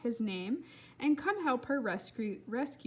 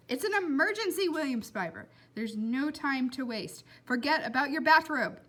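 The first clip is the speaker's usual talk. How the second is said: irritated; 4 semitones higher, 4 dB louder than usual. Acted. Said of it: "prick of irritation".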